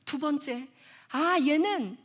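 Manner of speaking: ordinary talk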